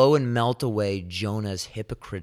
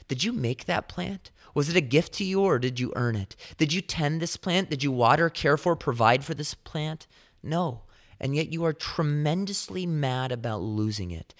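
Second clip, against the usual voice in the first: higher, pointed questions pressed one after another; God questioning Jonah; 5 semitones higher than usual. Retold or imitated. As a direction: corner him with each question. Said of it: "God is asking Jonah".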